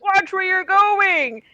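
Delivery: high, drawn-out complaint; annoyed call. Acted. Jostled passer-by scolding someone pushing through, annoyed shout. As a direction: call out after someone who bumped you. Jostled crowd member snaps.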